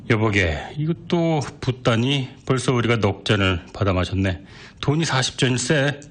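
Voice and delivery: a friend's gentle warning, lightly voiced; lightly voiced worried drinking buddy; cautioning friend. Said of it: "주의를 이렇게 주었다".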